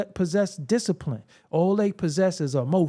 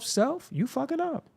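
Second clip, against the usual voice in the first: self-scolding; 7 semitones higher, 5 dB quieter than usual. Retold or imitated. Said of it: "Sometimes I say to myself".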